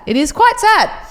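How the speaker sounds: hammed-up high lament; mock dramatic. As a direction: wail it in fake grief.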